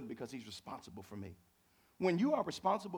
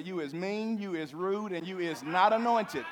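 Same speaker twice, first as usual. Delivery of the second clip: mock insult; 3 semitones higher, 4 dB louder, slower than usual. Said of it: "You wanna say".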